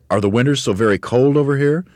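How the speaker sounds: high, loud, worried question; Mugglewump's cry. A narrator's reading. Mugglewump asks the bird about winters, crying out. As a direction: ask it in alarm. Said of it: "cried Mugglewump".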